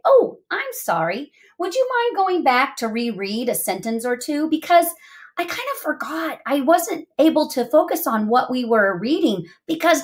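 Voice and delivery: lightly acted sheepish apology; apologetic. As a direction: play a mildly sorry inner voice asking a favor. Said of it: "has to apologize to reading voice".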